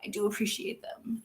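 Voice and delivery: whispered, embarrassed; whispered shy gratitude. Real, not acted. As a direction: breathe it out bashfully. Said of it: "I don't do compliments very well".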